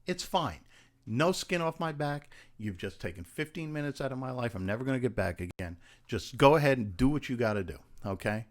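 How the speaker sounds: mock furious, telling her to go elsewhere; mock angry rant. Actor to casting agent, showing he can be aggressive, angry. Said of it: "that's me just being a little bit meaner".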